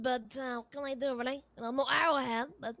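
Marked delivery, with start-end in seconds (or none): 1.8-2.5 a mild dig on Arrowhead; pointedly aggravating. Real, not acted. Builder repeating the Arrowhead remark, mildly aggravating. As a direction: lightly needle them with the name. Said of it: "like, aggravating Arrow".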